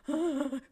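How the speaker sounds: sharp, high gasp as if crying; mock crying gasp. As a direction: gasp like tears are coming.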